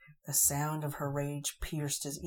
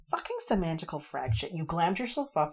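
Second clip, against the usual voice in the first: angry rant; 3 semitones higher, 9 dB louder than usual. A narrator's reading. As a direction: rage at his deceit. Angry fairy ranting during duel.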